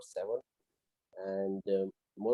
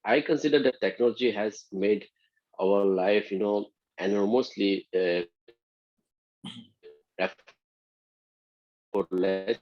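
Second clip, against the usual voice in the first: shouting into a phone; 7 dB louder than usual. Real, not acted. Loud answer over breaking connection.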